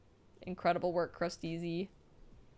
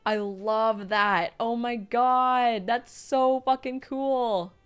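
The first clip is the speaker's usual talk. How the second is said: lingering excitement; 5 dB louder, slower than usual. Real, not acted. Still thrilled, drawn out.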